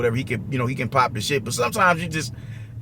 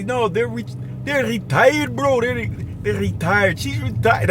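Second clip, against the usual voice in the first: put-on higher-pitched thick Russian accent; 4 semitones higher, slower than usual. Russian meat slicer describing the girls at work, thick accent. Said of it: "in his thick Russian accent".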